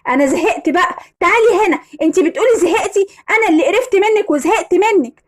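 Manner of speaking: acted exasperation, pitch climbing; fed-up quarrel. A couple quarrelling over who is fed up with whom, exasperated.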